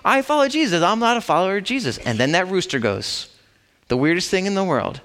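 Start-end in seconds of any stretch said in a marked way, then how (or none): 0.0-2.0 upset denial. Retold or imitated. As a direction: snap back, cornered and defensive. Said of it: "he gets upset with people".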